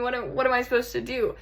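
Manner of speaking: full-voiced, hurried exasperation; exasperated helplessness. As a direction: throw the question out in frustration. Same question, now worked up.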